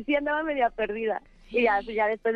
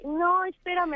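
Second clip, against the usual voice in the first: put-on boyfriend stalling; 8 semitones higher, slower than usual. Boyfriend voiced in story.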